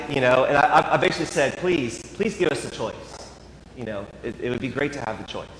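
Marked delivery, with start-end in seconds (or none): 1.6-5.5 polite and quiet. Retold or imitated. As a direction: plead politely, keeping your voice down. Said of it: "I was very polite. I stayed quiet".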